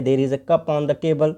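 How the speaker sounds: slow, measured repeat of the model; teacher modelling a sentence to repeat. Shown as a demonstration. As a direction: lay each word out slowly. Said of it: "teacher ने कह दिया".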